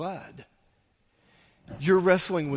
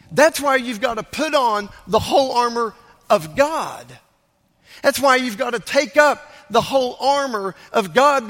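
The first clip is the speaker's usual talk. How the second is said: urgent, emphatic sermon delivery, pitched up a little; forceful preaching; 4 semitones higher, 3 dB louder than usual. Real, not acted. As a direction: preach it hard, driving each phrase home.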